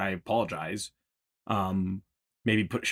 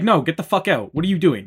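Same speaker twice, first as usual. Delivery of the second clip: higher, louder mock casino bouncer; mock outrage; 7 semitones higher, 6 dB louder than usual. Casino staff ordering a parent out, mock outraged. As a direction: kick him out in pretend shock.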